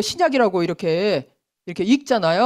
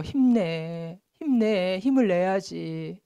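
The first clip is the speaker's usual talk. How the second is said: softer, slow consoling; mock comforting; 3 semitones lower, 7 dB quieter, much slower than usual. Visitor consoling a depressed person, soft slow comfort. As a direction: console gently, drawing it out. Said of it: "위로해주면서".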